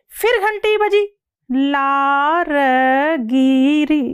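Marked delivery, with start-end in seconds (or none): 1.5-4.0 drawn-out words mimicking slowly falling saliva; lightly drawn-out storytelling of slow drool; slow drip. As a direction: stretch each word as if drooling slowly. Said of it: "धीमी गति से लार गिरी".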